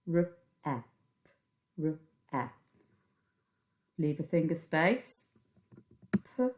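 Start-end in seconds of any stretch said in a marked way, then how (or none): 0.0-2.5 P-R-E pinched as three separate sounds; teacher segments phonemes on Fred fingers; sounding out phonemes. Shown as a demonstration. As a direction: give each sound in P-R-E its own finger. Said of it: "Three Fred fingers for pre".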